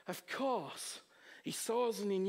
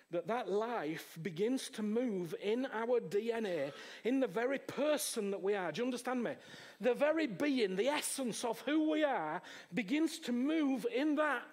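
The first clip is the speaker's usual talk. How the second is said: building preaching; 2 semitones higher than usual. Acted. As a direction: build it up with weight.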